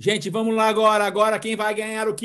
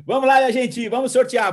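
hyped giveaway announcement; 4 semitones higher, 4 dB louder than usual. Real, not acted. Kicks off the giveaway draw.

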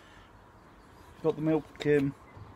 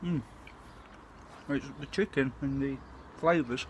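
talking between bites; eating spicy food; mouth full, chewing; 5 dB quieter than usual. Real, not acted. Seen 0: Bites curry off spoon at 3.0, then talks while chewing.

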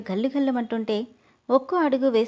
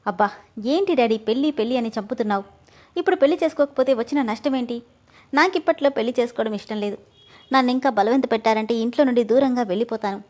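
a touch of heated protest; angry. Acted. Neha snapping at her father about marriage, mildly angry. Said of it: "అని కోపంగా చెప్పి".

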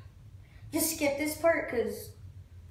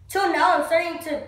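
heated realization; 3 semitones higher, 5 dB louder than usual. Acted. Acted monologue, bitter realisation.

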